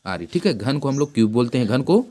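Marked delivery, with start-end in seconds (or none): 0.0-0.2 slow letter-by-letter spelling. Shown as a demonstration. Teacher spelling sphere to the class, slow and deliberate. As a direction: spell each letter out slowly, one at a time. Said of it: "spelling sphere for students".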